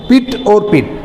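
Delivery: first पिट with short i, second पिट with long stressed ee; short and long vowel contrast. Shown as a demonstration. Teacher showing how vowel stress changes meaning, short versus long vowel. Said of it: "अर्थ में अंतर आता है वर्ण बलाघात से".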